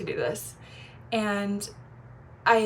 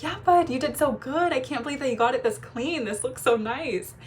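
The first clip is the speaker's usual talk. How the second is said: cheerful praise; 4 semitones higher than usual. Retold or imitated. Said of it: "I'm like".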